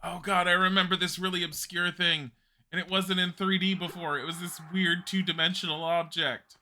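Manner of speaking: excited fan. Real, not acted. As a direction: gush over a forgotten detail. Remembering an obscure detail.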